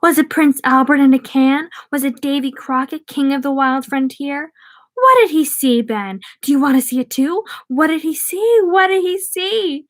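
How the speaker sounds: high taunting monster voice; mock him from the landing; vampire taunting with rising menace; screaming vampire. A narrator's reading. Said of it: "the vampire on the landing screamed".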